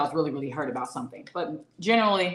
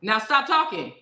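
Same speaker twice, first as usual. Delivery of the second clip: louder, curt brush-off sorry; dismissive mock apology; 4 semitones higher, 5 dB louder than usual. Partner in a fight, brushing them off with a curt sorry. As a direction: cut them off with a quick loud sorry. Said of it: "you just immediately go".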